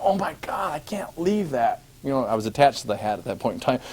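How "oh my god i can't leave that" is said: panicked whisper. Retold or imitated. Sudden realization about hat.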